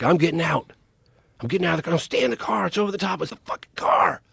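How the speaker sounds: very scared. Retold or imitated. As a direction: act out two scared kids arguing in the car. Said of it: "they're very scared".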